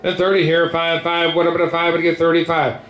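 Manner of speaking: rapid rolling bid chant; auctioneer. Real, not acted. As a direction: rattle off the bids like an auctioneer.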